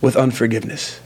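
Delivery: slow, deliberate reading, every word drawn out. Shown as a demonstration. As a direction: let each word sink in, very slowly. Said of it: "reading slow".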